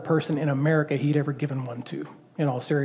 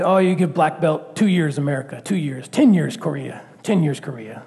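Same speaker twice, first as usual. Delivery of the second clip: Master Ku impression. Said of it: "This is my Master Ku impression".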